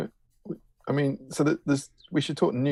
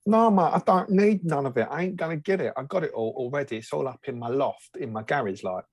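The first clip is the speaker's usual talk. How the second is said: raised pitch, lightly voiced East End mate; a hint of a Cockney geezer brushing it off; impression of co-host; 2 semitones higher than usual. Mocking co-host Steve as a cockney who already owns everything. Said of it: "I'm gonna do an impression of you".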